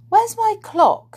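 high, loud, sudden question; sudden alarm. A narrator's reading. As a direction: blurt it out, pitched right up. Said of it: "said Silky suddenly".

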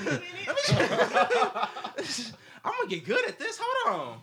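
high, squealing laugh through words; gasping with laughter between words; laughing hard. Real, not acted. Cracking up while trying again.

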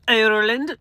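Ireland in a mock Irish lilt; hammed-up, unconvincing Irish accent; bad Irish accent. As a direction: have a poor go at an Irish accent. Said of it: "That's a horrible Irish accent".

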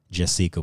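"Jessica" with a long ee for the i; "Jessica" with the middle vowel stressed as ee; accented I. Shown as a demonstration. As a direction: say "Jessica" as jess-EE-ka. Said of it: "an accent on the I".

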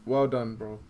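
lifeless, emotionless well done; dutiful praise with no feeling; zombie-like praise. Real, not acted. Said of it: "you sound like a zombie".

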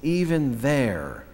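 measured, reverent Psalm reading; gentle solemn reading of the Psalm; scripture reading. Acted. Reads Psalm 139 aloud.

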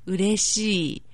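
slow, careful 嬉しい; over enunciating. Shown as a demonstration. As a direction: say 嬉しい slowly, every syllable clear. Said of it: "One more time slowly".

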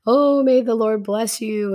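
lightly acted cheery welcome; cheerful greeting. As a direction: imitate Saul's breezy hello. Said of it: "Saul's all cheerful".

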